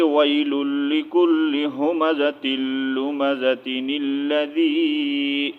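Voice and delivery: slow, melodic tajweed recitation; Quran recitation. Shown as a demonstration. Teacher recites the verse for students, slow chant.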